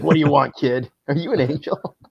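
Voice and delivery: smoker's rasp. Retold or imitated. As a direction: croak it out like a chain smoker. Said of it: "like, a smoker's voice".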